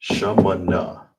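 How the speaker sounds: shamana stretched out slowly, each syllable clear; slow shamana down for the class to repeat; slow model word. Shown as a demonstration. Teacher repeating eight slowly so students can follow. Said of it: "All together is shamana".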